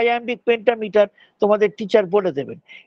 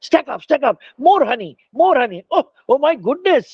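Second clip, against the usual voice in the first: higher, acted flurry of excitement; busy excited bees; 5 semitones higher than usual. Bees piling up more honey, playfully excited. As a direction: play a worker overwhelmed by the haul.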